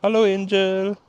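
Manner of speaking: loud high coo at a cat; high excited pet greeting. Real, not acted.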